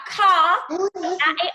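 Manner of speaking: "ka, a, a, ah" split into separate drawn-out sounds; teacher modelling each sound for the class; segmented sounds. Shown as a demonstration. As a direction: sound out "ka" then "a, a, ah" one at a time. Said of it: "third sound".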